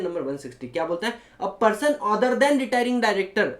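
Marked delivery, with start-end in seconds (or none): 1.4-3.5 slow dictation. Shown as a demonstration. Dictating the section text slowly.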